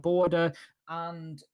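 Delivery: losing the voice on the word; voice catching. Real, not acted. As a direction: voice giving out mid-word. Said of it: "I've just lost my voice there".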